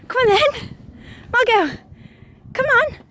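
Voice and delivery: high, bright coaxing call; coaxing dog voice. Real, not acted. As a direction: call her over, all encouragement. Coaxing dog over stile.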